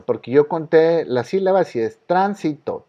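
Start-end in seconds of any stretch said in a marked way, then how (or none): 2.1-2.9 "tránsito" with the weight on TRÁN, the first syllable; stress on TRAN. Shown as a demonstration. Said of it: "Tran es donde lleva la sílaba tónica". ("tránsito" acentuado en la primera sílaba, TRÁN)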